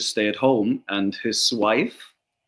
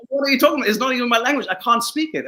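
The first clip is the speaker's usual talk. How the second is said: raised, higher mock outcry, half laughing; laughing high-pitched disbelief; high mock protest; 12 semitones higher, 4 dB louder, much faster than usual.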